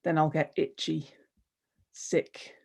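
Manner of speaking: measured, deliberate recital in short falling phrases; poetry reading. Acted. Poet pleading for just one word, measured spoken-verse delivery. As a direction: let each phrase land, then pause.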